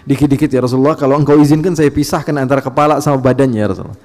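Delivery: hint of a forceful, ready-to-strike companion; Umar. Companion asking the Prophet's leave to punish, forceful. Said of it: "Sayyidina Umar paling banyak ngomong seperti ini".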